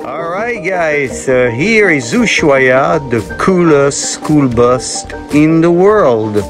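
slow, drawn-out tour intro; presenting to camera. Shown as a demonstration. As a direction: show off the bus to viewers, slowly.

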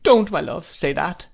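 high, pleading cry; piteous imploring. A narrator's reading. Mother begs her love to stop, piteous. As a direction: implore him tenderly and piteously. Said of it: "implored my mother very piteously".

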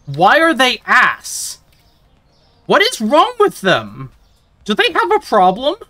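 worked-up gamer rant, climbing in pitch; exasperated, mad. Real, not acted. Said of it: "and I am mad".

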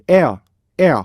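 "에어" with the second vowel dying away. Shown as a demonstration. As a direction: lean on "에", let "어" fade. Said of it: "뒤가 확 죽어버려요". ("에어"의 뒤를 확 죽여서)

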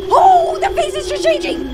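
high-pitched shocked cry; startled horror. Real, not acted. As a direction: shriek as it transforms. Face morphs suddenly.

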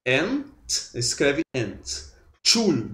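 Ent, then Tschul, each said as a separate syllable. Shown as a demonstration. Teacher splitting a long German word for students, syllable by syllable. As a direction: break off "Ent" and "Tschul" one by one. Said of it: "sílaba tônica".

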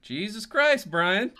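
loud, high-pitched exclamation of disbelief; astonished outburst. Real, not acted. Game master reacts to a player's dice roll, astonished.

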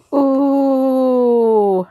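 squealing at a wonderful surprise; excited squeal. Real, not acted. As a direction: gush in thrilled disbelief. Thrilled reaction to new washi.

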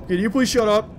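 mild, polite ask; polite request. Real, not acted. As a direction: ask it nicely, held back. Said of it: "I'm asking nicely".

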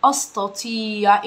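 slow, separated words; slow word-by-word teaching. Shown as a demonstration. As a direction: lay out each word slowly. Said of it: "امشي كلمة كلمة".

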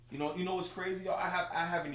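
laughing. Real, not acted. Laughing after viewer joke.

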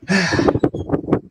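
breathy theatrical sigh of pity; mock sigh. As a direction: sigh as if grieving for them. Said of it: "You see the tear".

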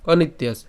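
"অনিত্যাস" joined, ত gliding into য; said together. Shown as a demonstration. Teacher showing the joined form, "অনিত্যাস" in one piece. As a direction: run "অনিত্যাস" as one word without a gap. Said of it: "একসাথে উচ্চারণ করলে".

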